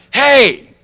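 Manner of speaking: high, loud, buddy-style hey; breezy casual greeting. Shown as a demonstration. A casual hey to his sponsor, high and loud. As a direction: toss off a chummy Hey. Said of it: "I didn't say".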